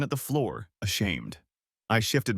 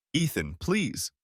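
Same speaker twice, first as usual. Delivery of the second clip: slow, higher entreaty; pleading; 5 semitones higher, slower than usual. A narrator's reading. Wife reaching toward her betrayed husband, pleading. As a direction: draw it out as a plea. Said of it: "hands outstretched pleadingly".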